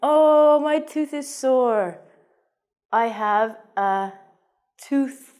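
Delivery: loud oh, then complaining about a sore tooth; mock complaint. Shown as a demonstration. Patient telling the dentist about a sore tooth, mock pain. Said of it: "So you might say".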